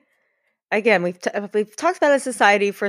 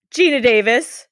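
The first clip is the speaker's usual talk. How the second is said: slightly raised, emphatic name call; all caps; 4 semitones higher, 4 dB louder than usual. Acted. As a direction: say the name as if in capitals. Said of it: "all caps".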